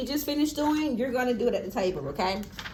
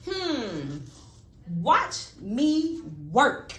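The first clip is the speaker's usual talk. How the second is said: drawn-out, louder excited calling; teacher demonstrating an excited sentence to a child; excited demo; 3 dB louder, much slower than usual. Shown as a demonstration. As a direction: show the kid what excitement sounds like. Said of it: "So how do I sound?".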